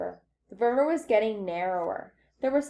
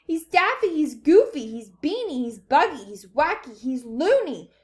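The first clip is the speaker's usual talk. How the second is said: chorus of shouting; 7 semitones higher, 5 dB louder than usual. A narrator's reading. Panicked parents raving about Wonka, shouting. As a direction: pile up the accusations, starting high. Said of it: "joined in the chorus of the frightening shouting".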